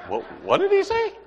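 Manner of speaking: high, laughing mock incredulity; laughing disbelief. Buddies at the lunch table react to the aliens remark, laughing. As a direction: squeal it out through laughter in disbelief.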